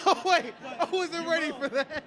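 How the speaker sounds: laughing. Real, not acted. Startled by moving cosplay mouth.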